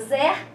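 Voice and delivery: "zer" set apart and stressed; stressed syllable. Shown as a demonstration. Teacher breaking exército into syllables, stressing "zer". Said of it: "Qual que é a sílaba acentuada".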